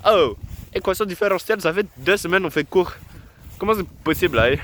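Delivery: exasperated mock African accent; put-on African accent. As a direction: vent about the equations in a hammed-up African accent. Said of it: "je prends l'accent africain quand, quand je m'énerve".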